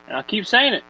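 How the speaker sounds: Southern twang. Retold or imitated. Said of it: "I don't know why I went Southern there".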